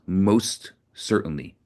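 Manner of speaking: slow, calm and serene. Acted. Rabbi calmly answering the taunting commander, serene. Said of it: "in a serene voice".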